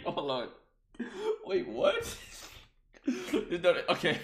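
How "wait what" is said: surprised. Real, not acted.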